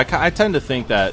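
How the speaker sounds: choppy audio cutting out; breaking up. Real, not acted. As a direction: voice dropping out in bits. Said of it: "You're breaking up there".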